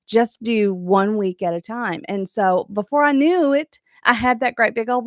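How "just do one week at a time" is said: steady advice. Retold or imitated. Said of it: "She broke it down and said".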